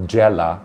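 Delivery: জেলা said as জ্যালা, the এ opened to অ্যা; mock wrong pronunciation. Shown as a demonstration. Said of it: "জেলাকে বলবেন". (ভুল উচ্চারণ: জ্যালা)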